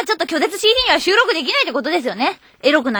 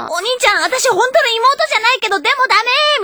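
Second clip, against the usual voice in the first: fake cute pouty voice; 6 semitones higher than usual. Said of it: "みたいなことでしょ".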